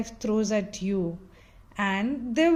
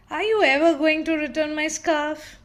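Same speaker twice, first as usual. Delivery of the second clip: grumpy complaint; 5 semitones higher, 4 dB louder, faster than usual. Acted.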